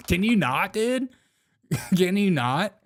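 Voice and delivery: put-on high, lilting Valley girl upspeak; mock Valley girl. Host teasing the director, hammed-up Valley girl. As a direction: whine it upward like a parody Valley girl. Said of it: "if you're gonna talk like this".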